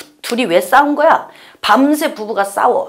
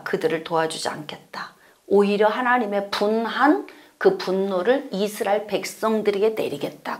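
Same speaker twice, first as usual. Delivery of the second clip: hushed whisper of God's refusal; an ominous whispered verdict; 2 semitones lower, 8 dB quieter than usual. Acted. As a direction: breathe it out as a soft whisper.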